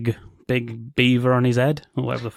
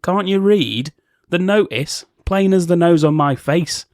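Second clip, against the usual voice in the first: slow, higher, huffy doorman voice; grumpy guard; 5 semitones higher than usual. Retold or imitated. Gatekeeper scolding Dorothy's group at the door, slow and huffy. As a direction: drag out the guard's scolding, pitched up. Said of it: "He says".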